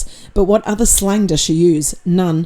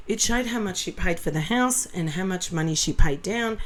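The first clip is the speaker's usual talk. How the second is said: quiet voice; 9 dB quieter than usual. Real, not acted. Drops to a hush.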